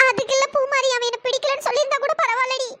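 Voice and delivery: tearful, breaking into sobs at the end; choked-up confiding; sobbing. Acted. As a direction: explain through tears until crying stops you. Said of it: "எதுக்குடி இப்படி தேம்பி தேம்பி அழுகுற".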